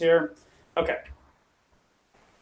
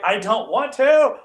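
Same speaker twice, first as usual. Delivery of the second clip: high, slow whiny refusal; Rama whining; 8 semitones higher, 8 dB louder, slower than usual. Retold or imitated. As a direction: drag it out like a sulky kid. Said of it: "Rama's like".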